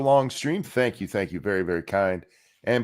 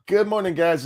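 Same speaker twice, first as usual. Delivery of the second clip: radio host voice; 5 semitones higher than usual. Pretend. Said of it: "I feel like I'm faking it".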